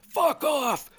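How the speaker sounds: "Fuck off" thrown out high and hard; high imitated yell of the swear. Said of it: "He yelled".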